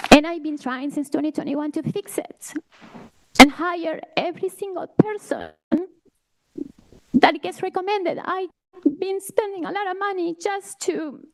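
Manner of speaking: fighting back tears, catching breath midword; emotional. Real, not acted. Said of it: "I'm sorry I'm emotional".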